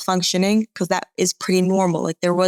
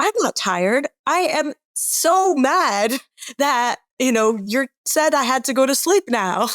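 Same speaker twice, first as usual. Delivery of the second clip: mock angry child; 5 semitones higher, slower than usual. Child's angry protest acted out.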